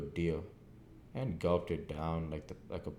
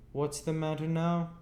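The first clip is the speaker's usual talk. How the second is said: sharper sister; 11 semitones higher, 4 dB louder than usual. A narrator's reading. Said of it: "more sharply than before".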